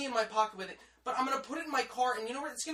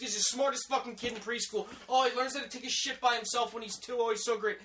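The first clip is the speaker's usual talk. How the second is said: mock gushing; 3 semitones higher than usual. Mimics gushing over customer's child.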